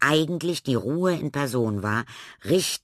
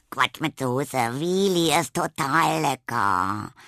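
cheerful; 4 semitones higher, 4 dB louder, slower than usual. Acted. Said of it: "meinte Tilda vergnügt".

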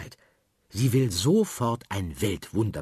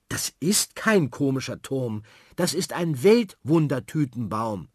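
put-on indignant girl; 4 semitones higher, 4 dB louder than usual. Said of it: "Sophie ist empört".

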